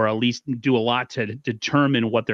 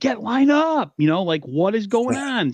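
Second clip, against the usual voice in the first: put-on, very high-pitched screaming outburst; 11 semitones higher than usual. Retelling watching last night's game on television: imitating screaming at the TV. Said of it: "I was screaming at the television".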